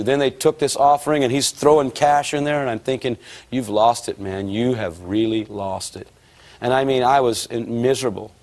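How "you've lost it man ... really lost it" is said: low, slowing verdict of disbelief; lightly acted dismay, dropping lower and slower; mock disbelief. Thinking his friend has lost it, mock disbelief.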